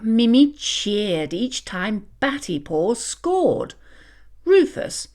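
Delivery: usual speaking voice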